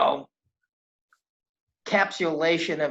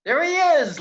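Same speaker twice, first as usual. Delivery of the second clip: excited; 11 semitones higher, 6 dB louder than usual. Real, not acted. Host spots guest on screen.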